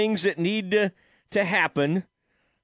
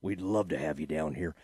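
put-on Arkansas accent; 11 semitones lower, 7 dB quieter than usual. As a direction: impersonate a good-ol'-boy Arkansas owner. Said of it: "a really heavy Arkansas accent".

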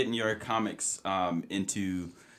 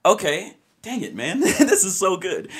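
trying not to laugh; 10 semitones higher, 6 dB louder than usual. Real, not acted. Host cracking up mid-interview.

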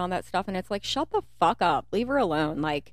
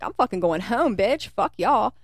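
triumphant retold cheer; 4 semitones higher, 5 dB louder than usual. Retells her triumphant exit.

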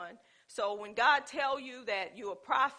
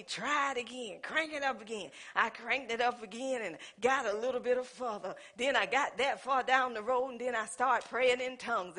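mock bragging testimony; 2 semitones lower than usual. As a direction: lightly parody a bragging believer. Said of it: "the ones who's boasting and bragging".

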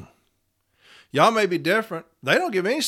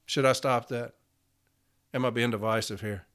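dropped, softer self-check; sheepish aside; 6 semitones lower, 6 dB quieter than usual. Real, not acted. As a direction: pull back, mock-sheepish. Self-aware aside after rant.

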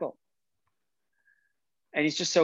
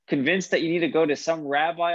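mocking laugh breaking into the words; laughing scornfully; 3 semitones higher than usual. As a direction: laugh him off as a fool. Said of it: "His father-in-law starts laughing".

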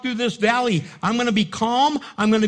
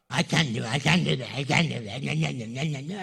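whiny giving up; 7 semitones lower than usual. Retold or imitated. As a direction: whine like a quitter. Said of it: "the other ones just give up".

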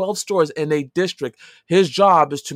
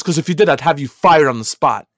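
stern threat; 7 dB louder than usual. Retold or imitated. District manager threatens him.

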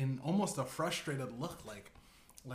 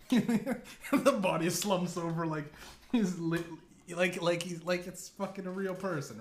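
laughing; 4 semitones higher, 5 dB louder than usual. Real, not acted. Laughing at the corpse slumping.

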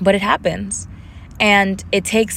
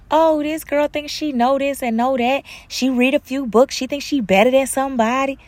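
higher-pitched mock disdain; mocking critic; 6 semitones higher than usual. Imagined critics judging her for reading books, mocking disdain. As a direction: imitate a scornful gossip, pitched up.

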